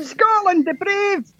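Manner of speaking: lightly hammed-up Scottish; Scottish anthem title. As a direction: declaim it like a proud Scot. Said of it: "Scottish song title".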